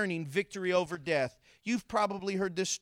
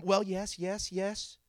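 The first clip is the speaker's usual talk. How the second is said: dismissive agreement. Acted. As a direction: humour the teacher with a knowing yes. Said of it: "I could just hear the tone".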